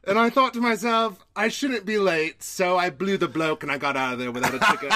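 put-on British drifting toward Australian; British accent. Podcast host finishing a silly story in a British accent. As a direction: tell it in mock British, near laughing. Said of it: "my British accent starts turning into Australian".

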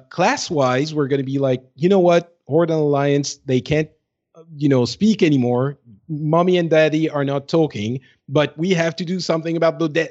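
ordinary talk

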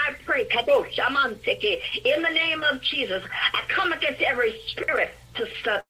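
earnest spoken prayer. Acted. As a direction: pray it steadily and earnestly. Leads a prayer.

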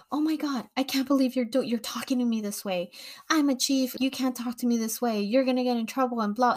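high, whiny mock protest; mocking her coworker. Mimicking the chief who backs away from her, lightly voiced. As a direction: imitate her clutching pearls, pitch up. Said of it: "she was putting her hands up like".

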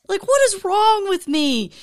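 high, slow laughing self-mockery; laughing at himself. Real, not acted. Telling viewers his blunder, laughing high. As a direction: crack up calling himself a goober.

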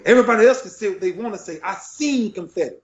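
high-pitched, insistent conviction; real emotion lifting the voice; emotional, impassioned. Real, not acted. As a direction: insist on it, moved and defiant. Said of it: "I'm getting emotional now".

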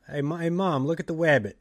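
"wabbit" dito com w no lugar do r, imitando criança; childish r as w. Retold or imitated. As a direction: diga "wabbit" com w suave, voz de criança. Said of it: "turns your R's into W's".

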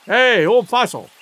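slow loud sailor's jeer; rough shout. A narrator's reading. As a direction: yell it at the old man. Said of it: "cried the man".

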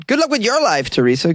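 high, sing-song brush-off; mock sign-off. Host teasing a listener, high mock farewell. Catchphrase repeated, higher still.

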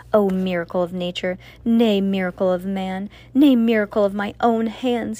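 building from loud to very loud; rising proclamation. Acted. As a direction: proclaim it ever grander, nay by nay. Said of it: "he proclaimed".

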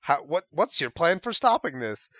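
can't believe the combo came up; exasperated disbelief. Retold or imitated. Abdel's exasperated retold rant.

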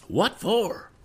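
high-pitched, sharp demand. Acted. Crewman questioning his arrest, high demanding voice. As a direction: demand a reason, pitched right up. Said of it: "demanded Mister Sharp".

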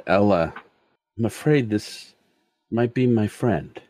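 halting, contained distress; keeping composure. Acted. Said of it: "as he's trying to, uh, keep his composure".

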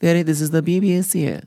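put-on lightly posh old BBC announcer; a hint of vintage BBC announcer. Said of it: "Talking like that all the time".

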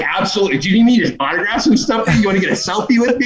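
high, cocky celebrity act; mock star graciously offering autographs; owning it. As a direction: play the famous runner with swagger. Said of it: "like, owning it".

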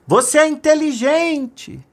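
high, slow drawn-out shout; acted long, high holler; calling out. A narrator's reading. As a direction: call the praise out to the mountains. Father calls out into mountains.

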